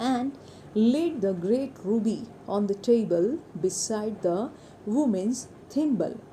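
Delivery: slow, deliberate English reading for learners; story read-aloud. A narrator's reading. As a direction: read it out word by word, very slowly. (धीमे, साफ़ कहानी पाठ)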